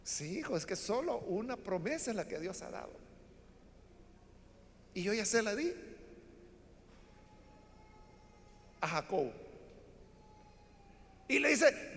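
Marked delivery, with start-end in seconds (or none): 0.0-9.3 put-on hushed old father. A narrator's reading. Old father answers weeping son.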